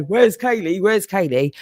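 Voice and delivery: imitating the watchers. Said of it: "people here twenty-four seven going".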